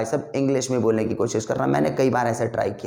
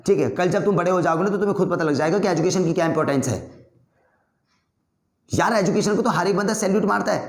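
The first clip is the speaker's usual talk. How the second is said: mock angry argument; 3 semitones higher than usual. Shown as a demonstration. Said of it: "गुस्से से जैसे मैं बोल रहा हूँ और जल्दी जल्दी".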